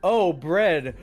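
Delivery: remembering the Walmart packaging, mock surprised; mock realization. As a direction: play the moment it clicks. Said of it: "And I'm like".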